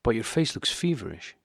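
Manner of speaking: "feverish" leaned on and lifted; husband notes her face, stressing "feverish". Acted. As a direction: press the word "feverish" with concern. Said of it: "emphasizing the word feverish".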